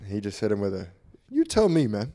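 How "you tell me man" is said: lightly imitated, high-pitched comic line; higher, mock-comic delivery; Druski. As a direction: toss it out high like a comedian's bit. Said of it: "Very Drewski-esque".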